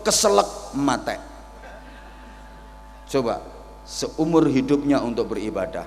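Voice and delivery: usual speaking voice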